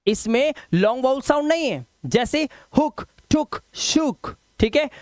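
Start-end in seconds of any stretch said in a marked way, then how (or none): 2.8-4.4 हुक, टुक, शुक with a short "u", spaced apart; short vowel sound. Shown as a demonstration. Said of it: "ये short vowel sound है". (हुक, टुक, शुक में छोटा उ)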